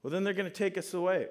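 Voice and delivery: high, quick mock fretting; imitated worried child. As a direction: play an anxious kid rushing to the worst. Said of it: "he's just worried".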